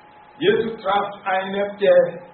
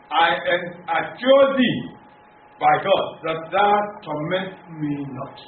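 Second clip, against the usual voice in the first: raised, emphatic reading of the demons' plea; scripture reading; 3 semitones higher than usual. Acted. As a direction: proclaim the verse to the congregation. Reads Mark 5:7 aloud. (feierliche Bibellesung, laut und betont)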